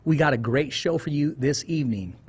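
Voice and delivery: punchy radio host welcome; live show opener with punched key phrases; show host intro. Real, not acted. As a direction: open the show like an announcer.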